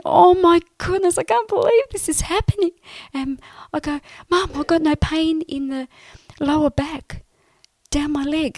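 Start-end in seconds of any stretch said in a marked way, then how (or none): 0.0-2.7 much higher, louder, fast, astonished; overwhelmed exclamation. Retold or imitated. Reacting to her healed leg, ecstatic disbelief. 4.3-8.6 higher and louder, breathless joy; excited news. Retold or imitated. Telling Mum her back pain is gone, elated.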